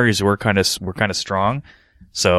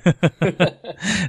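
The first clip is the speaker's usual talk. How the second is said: high laugh; 10 semitones higher than usual. Real, not acted. Laughing at the pothead story.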